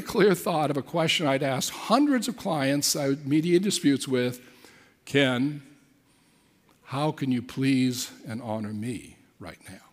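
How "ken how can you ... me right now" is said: gentle inner voice. Retold or imitated. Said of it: "It was not an audible voice".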